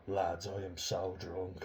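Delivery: slow, drawn-out mock drunk whine; attention-seeking drunk girl. Mocking a young woman seeking attention, slow drunken drawl. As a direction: stretch it out like she wants everyone to notice. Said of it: "looking for attention, going".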